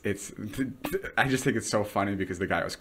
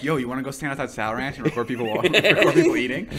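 laughing imitation; 3 semitones higher than usual. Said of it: "Jason and Joe were like".

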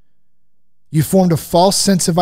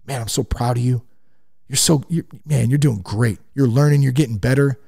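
encouraging dad. Retold or imitated. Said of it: "that is how I talk to him".

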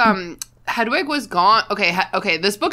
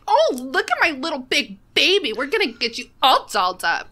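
Jonathan Van Ness; 5 semitones higher than usual. Retold or imitated. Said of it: "just picture Jonathan Van Ness being like".

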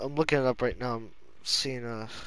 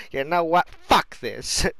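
imitated game character; 6 dB louder, slower than usual. Repeats the character's line.

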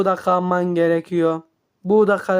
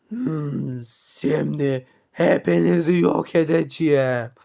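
low villain threat; 5 semitones lower than usual. Acted. Villain announces he will destroy all.

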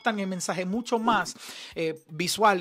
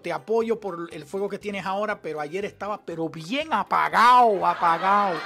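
mocking paraphrase; 5 dB louder than usual. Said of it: "esta persona está diciendo".

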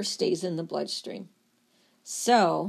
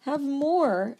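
screaming liver; 6 semitones higher than usual. Acted. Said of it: "the liver's still screaming".

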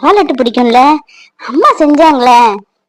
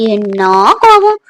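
mock surprise; 5 semitones lower, slower than usual. Teasing her angry fiancé.

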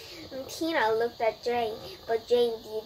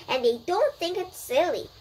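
shouted; 7 semitones higher, 4 dB louder than usual. A narrator's reading. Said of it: "she shouted".

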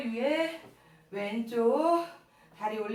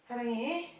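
tender; 3 semitones lower, 6 dB quieter, much slower than usual. Real, not acted. Tender to child.

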